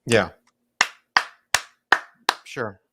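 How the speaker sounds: ordinary delivery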